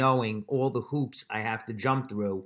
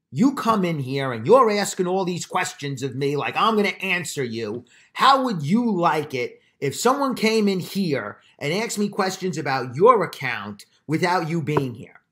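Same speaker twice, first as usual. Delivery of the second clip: louder, higher, indignant retold rant; escalating clerk; 4 semitones higher, 5 dB louder than usual. Bank clerk berating a customer at the counter, heated and indignant. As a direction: imitate a clerk losing his temper. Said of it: "This guy has just elevated it to a ridiculous level".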